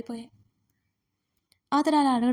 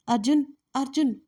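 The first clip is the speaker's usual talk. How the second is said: calling across the hall, a little raised; 3 semitones higher than usual. A narrator's reading. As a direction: call his name toward another room. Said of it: "అంటూ హాల్లో నుండి అరిచింది". (హాల్లోంచి పిలుస్తూ)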